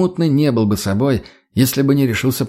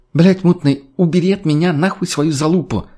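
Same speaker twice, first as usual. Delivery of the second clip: disgusted snap; 6 semitones higher than usual. Acted. Disgusted friend pushes Mutny away.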